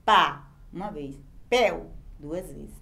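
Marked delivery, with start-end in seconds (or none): 0.0-0.5 "pá" as one loud, isolated syllable; a single punched "pá"; one sound at once. Shown as a demonstration. Teacher showing a sound said at once, isolated syllable. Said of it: "se pronuncia de uma vez". 1.5-1.9 "Pel" as one isolated syllable; a single, separate "Pel"; one sound at once. Shown as a demonstration. Teacher counting the second sound, isolated syllable. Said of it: "se pronuncia de uma vez".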